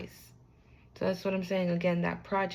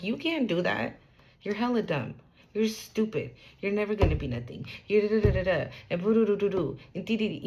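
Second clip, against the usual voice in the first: arrogant mockery. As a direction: sneer it down at a dreamer. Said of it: "they would be like".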